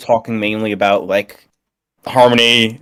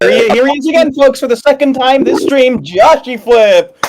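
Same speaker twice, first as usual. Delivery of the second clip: announcer voice; 13 semitones higher than usual. Acted. Host introducing a guest on stream.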